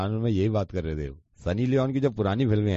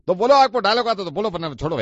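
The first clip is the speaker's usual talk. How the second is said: louder, snapping at him; impatient outburst; 8 semitones higher, 7 dB louder than usual. Acted. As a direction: demand it impatiently. Impatient caller loses patience.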